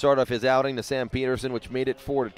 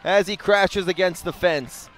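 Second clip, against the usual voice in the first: excited play-by-play; 6 semitones higher than usual. Real, not acted. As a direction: build it up as the catch happens. Catch against the fence.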